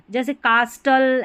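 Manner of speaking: कास्टल with the T sounded, kaas-tal; कास्टल said wrongly with a clear T; wrong pronunciation. Shown as a demonstration. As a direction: say कास्टल pronouncing the T, as a mistake. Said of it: "ऐसे नहीं होगा".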